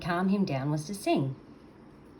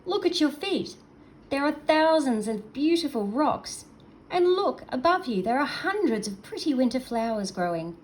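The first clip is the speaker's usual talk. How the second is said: much higher, louder eager call; shouting excitedly; 7 semitones higher, 5 dB louder than usual. Acted. Seal shouts to the creature up the beach, eager and high. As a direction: call out, pointing everything out. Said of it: "shouted to Mutsuk".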